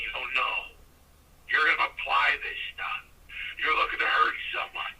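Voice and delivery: lightly voiced gruff old trainer, breathy lead-in; a hint of Mickey from Rocky, grumbling advice; mild imitation of the old trainer voice; imitating Mickey. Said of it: "he talked just like Mickey".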